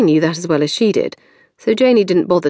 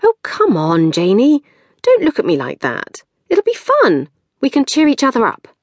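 coaxing sister; 8 semitones higher than usual. A narrator's reading. Maxine coaxing Janey to let her stay, higher and pleading. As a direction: talk her sister round, bright and pushy.

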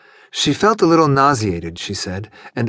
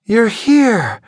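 high, louder cry of relief from a tipsy geisha; clinging and calling out, much higher; a woman falling against her man; relieved drunk woman; 10 semitones higher, 5 dB louder than usual. Acted.

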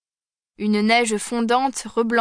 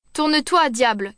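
a mild shout, pitched higher; 3 semitones higher than usual. Acted. Voice in the dark yelling at Yona to turn, mild shout. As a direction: yell out of the dark at the cabman. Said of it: "crie une voix dans le noir".

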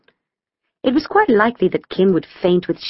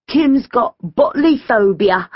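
put-on slow, chortling boy's tease; 6 semitones higher, slower than usual. A narrator's reading. George teases Kim before the crowd, chortling. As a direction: chortle before and after the jibe. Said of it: "George chortled".

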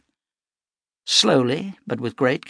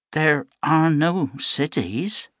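slow and higher; slow, stern; 5 semitones higher, slower than usual. Acted. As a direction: spell it out flatly. Mother flatly denies.

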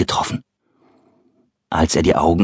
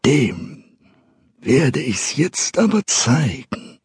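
mock-brave threat; 5 semitones higher, slower than usual. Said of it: "stammelte er".

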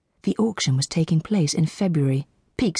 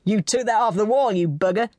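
higher, cheerful mock accusation; cheerful accusing voice; 5 semitones higher than usual. A narrator's reading. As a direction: tease him, loud and cheerful. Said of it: "loud and cheerful voice accused".

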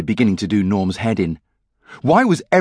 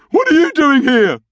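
high, loud, indignant demand; indignant outburst; 5 dB louder than usual. A narrator's reading. Norm finding his brother in the bath, indignant. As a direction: burst out in outraged disbelief.

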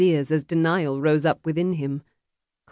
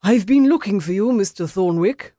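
higher, louder, winded voice; out of breath; 5 semitones higher, 4 dB louder than usual. A narrator's reading. Interloper reaches the duelist, out of breath. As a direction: push the words out after a run. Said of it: "gasping to catch his breath".

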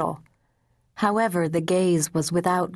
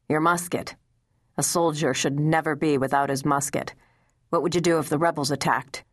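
a hint of the stern commander sending the boy off; understated commanding officer's voice; stern general's order.

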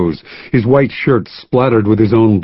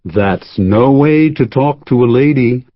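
cheerful; 2 semitones higher than usual. Acted. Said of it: "said Bob cheerfully".

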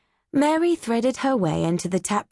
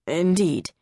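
lofty. Acted. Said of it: "he replied loftily".

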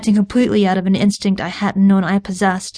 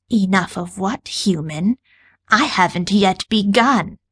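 syrupy sweet; slower than usual. Acted. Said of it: "Her tone was syrupy sweet".

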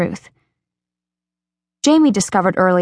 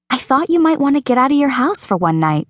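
Rachel's voice; 7 semitones higher than usual. Acted. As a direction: nudge her gently toward the dance. Rachel offering escape.

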